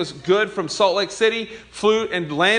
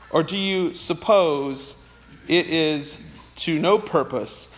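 slow, weighty scripture reading with strong stresses. Acted. Pastor reading James aloud to his church, slow and solemn. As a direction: read the passage to the congregation deliberately.

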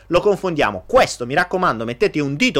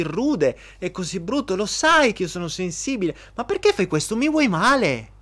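put-on wounded innocent boyfriend; 3 semitones higher than usual. Boyfriend deflecting the lipstick question, mock hurt whine. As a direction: play the offended sensitive one to dodge the question. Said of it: "E lui?".

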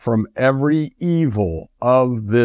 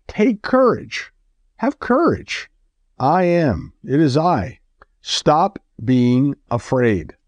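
high, slow call of reassurance across the water; calm them from afar, lifting the voice; Jesus calling out to scared disciples, reassuring; 3 semitones higher, slower than usual. Acted. Jesus calls to frightened disciples.

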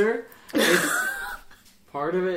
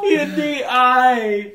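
put-on high-pitched childish protest; mock tantrum, high and insistent; toddler tantrum; 6 semitones higher, 6 dB louder, much slower than usual. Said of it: "like a two-year-old throwing a tantrum".

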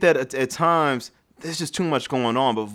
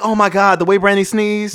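gushing fan voice; 6 semitones higher, 5 dB louder than usual. Retold or imitated. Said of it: "And y'all be like".

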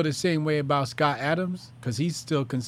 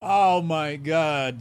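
slow, drawn-out oh my God, a bit louder; amazed sigh; 4 dB louder, much slower than usual. Real, not acted. Host reacting to the caller just hung up, slow amazed exclamation. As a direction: let the caller's rant sink in, stretched out.

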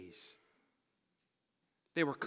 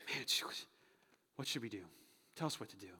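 soft, lowered acted appeal; humble plea; 5 semitones lower, 5 dB quieter than usual. Crowd asks Peter what to do, soft humble plea. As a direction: ask quietly, in surrender.

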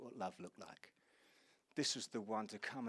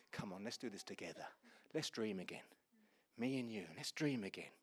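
gentle invitation. Acted. Voices God's gentle invitation.

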